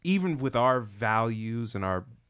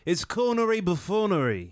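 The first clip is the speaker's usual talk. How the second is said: laughing, higher mock-grand pronouncement; a friend mocking Spike Lee's fancy words, laughing and hammed-up; mock pompous verdict; 11 semitones higher, 3 dB louder than usual. Friend imitates critic, higher with a laugh, hammed-up. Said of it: "I'm surprised he didn't go".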